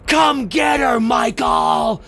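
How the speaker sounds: half-shouted retold scream, drawn out; mock scream. Lori screams to Michael from the car window, mock scream. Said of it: "screams across".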